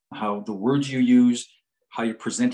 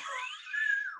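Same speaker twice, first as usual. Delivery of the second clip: thin, high wordless squeal, softer; imitated high squeal; 9 dB quieter than usual. Psychologist's legs buckling before the client, small high squeal. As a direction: let out a small high mock whimper. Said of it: "like that".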